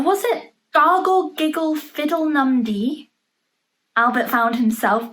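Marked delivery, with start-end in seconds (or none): 0.7-3.1 magic words. Acted. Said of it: "said some magic words".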